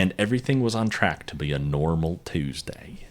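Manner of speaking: put-on South Carolina Southern accent. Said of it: "Is that how South Carolinians talk?".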